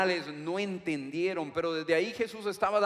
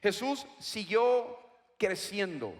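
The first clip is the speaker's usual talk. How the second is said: siguió leaned on, slower delivery; stress on siguió. Shown as a demonstration. Preacher stressing the theme verse to the church, slow. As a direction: press on siguió, unhurried. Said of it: "vamos a enfatizar".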